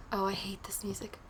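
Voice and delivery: breathy whisper of dread; hushed, uneasy whisper. Real, not acted. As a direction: whisper it so the creepy music can't hear you. Creepy game music playing.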